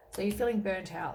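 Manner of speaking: talking through a yawn; stifled yawn while speaking. Real, not acted. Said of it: "I keep yawning".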